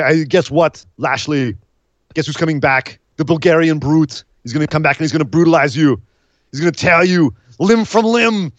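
lightly voiced Schwarzenegger accent, menacing; hint of a Schwarzenegger accent. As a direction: threaten like a Schwarzenegger villain. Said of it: "sound a hell of a lot like Schwarzenegger".

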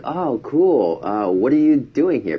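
high, cheery oh cool; perky question. Retold or imitated. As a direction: keep it bright and friendly. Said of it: "I was like".

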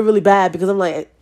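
normal talking voice

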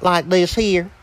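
light country accent. Shown as a demonstration. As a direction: put on a little country accent. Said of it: "I use my little country accent".

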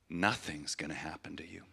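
soft unvoiced whisper of comfort; hushed voice of Jesus comforting; whispered reassurance. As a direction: breathe it gently as a promise. Jesus speaking in vision, whispered.

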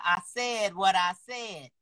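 slow, sassy "I said what I said", each word laid down firmly; sassy meme delivery. Retold or imitated. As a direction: drawl it out like the defiant meme. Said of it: "I love this meme".

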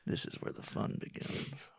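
hushed, secret glee, slow at the end; secretly thrilled inner voice. Retold or imitated. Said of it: "I'm like".

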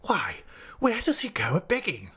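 high-pitched, affronted questioning; incredulous cry. A narrator's reading. Headmaster challenges Steerforth's claim, incredulous. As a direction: question him in high disbelief, without shouting. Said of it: "cried Mister Creakle".

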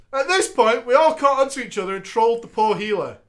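normal talking voice

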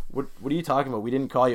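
cool, understated denial; ice cold. Retold or imitated. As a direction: deny it casually, giving nothing away. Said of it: "They played me ice cold".

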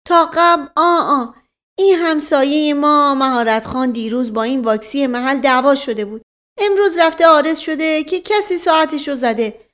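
high, loud character voice; animated servant spinning out his account; folksy explaining servant. Acted. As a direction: launch into an earnest, long-winded explanation. Mashqasem's explanation.

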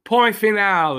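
"Point final" in French, pwan fee-NAL; French phrase. Shown as a demonstration. Podcaster drops a French saying, lightly French. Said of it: "That's a French saying".

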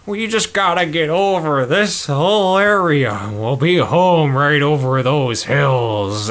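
a hint of a tired old man, slowed down. A hint of old Shadow urging the others home. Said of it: "Shadow in his old man voice".

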